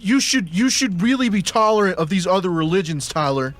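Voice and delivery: preachy lecturing voice. Retold or imitated. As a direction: lecture him like a smug atheist. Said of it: "they're like".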